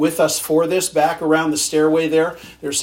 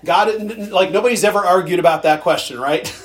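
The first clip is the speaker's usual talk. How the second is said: sarcastic; 2 semitones higher, 4 dB louder than usual. Shown as a demonstration. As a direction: laugh it off like it's obvious. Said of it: "I'm being sarcastic".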